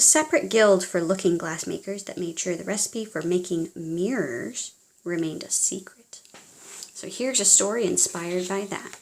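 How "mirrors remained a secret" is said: whispered secret, unvoiced; conspiratorial storyteller whisper. A narrator's reading. Secret recipe, whispered aside.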